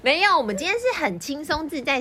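laughing. Real, not acted. Host laughs at own teasing.

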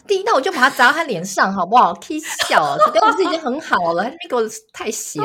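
loud, high indignant rant; playfully furious friend; mock outrage. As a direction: rant like you'd smash the plate in his face. Mock outrage at critic dad.

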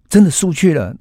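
高声喊出，音调高很多; 拔高嗓门，激动地宣告. Acted. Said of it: "大声的说". (佐佐木向两位老朋友大声宣告日本真的输了)

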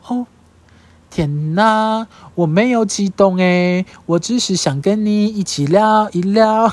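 slow, soothing, deliberately gentle reassurance; soft and gentle. Shown as a demonstration. 向说她激动的人，慢慢轻声细语地安抚. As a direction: coax them calmly, slowing right down. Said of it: "我一定要轻声细语跟你讲说".

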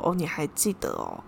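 soft, timid little question; meek reply. Retold or imitated. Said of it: "我就弱弱的跟他说". (弱弱地小声问)

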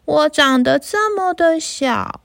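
a small goat begging not to be eaten; little goat. Acted. Little goat pleads with troll.

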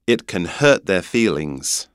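British "hurt", no R; British accent. Shown as a demonstration. Teacher translating for the host in a British accent. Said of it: "英国腔".

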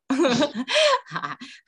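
a short high burst of laughter; bright laugh. Real, not acted. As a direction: laugh out loud, falling off at the end. Teacher laughs about the answers. (开心地笑出声)

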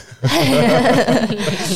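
loud burst of laughter; real laugh. Real, not acted. Guest amused by host's wry summary, real laughing. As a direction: crack up out loud.

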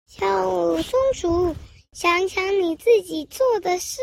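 slow, firm teacher voice; stern teacher. Acted. Teacher tells squirrel to reflect, slow and firm. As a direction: say it slowly like a teacher scolding. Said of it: "老师说".

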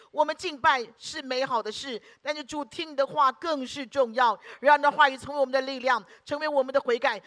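earnest spoken prayer to God; leading a Sunday prayer aloud. Acted. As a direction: pray it over the congregation, steady and fervent. Pastor leads congregation in prayer.

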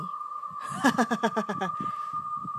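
breathy eerie chuckle, unvoiced; a ghostly guard laughing at the scared boy; creepy laugh. Security guard's creepy laugh. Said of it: "Dia malah ketawa sambil ngomong gini".

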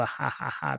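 low, quiet mock evil laugh; a muted villain chuckle, put on; understated pretend wicked ha-ha-ha. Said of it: "tawa jahat".

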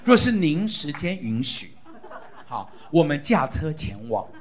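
put-on stiff courtly child addressing father; hammed-up old-fashioned reverence; stilted classical-style prayer, lightly played; mock formal prayer. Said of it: "我们祷告都变成这样文绉绉的".

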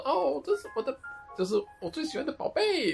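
high, doting fan voice; gushing fan. Retold or imitated. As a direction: gush over your favourite like a fan. Fan gushing over favourite idol.

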